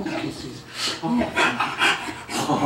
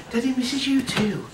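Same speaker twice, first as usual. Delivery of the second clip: doting dog-talk; 6 semitones higher than usual. Real, not acted. Dad greeting excited dog after work.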